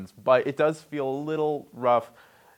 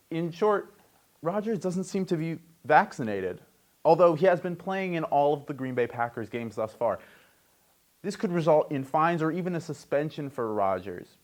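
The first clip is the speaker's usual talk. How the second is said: sports news read; 3 semitones higher than usual. Acted. Host reads football investigation story, news read. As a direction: announce the story like an anchor.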